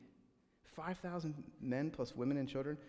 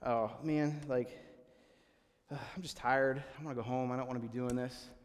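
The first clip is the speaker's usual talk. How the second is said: mock tired complaint, sagging lower as it goes; retold grumbling; 3 semitones lower than usual. Imagining disciples grumbling as they walk, mock weary complaint. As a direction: grumble like a worn-out follower. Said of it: "I think the disciples are grumbling".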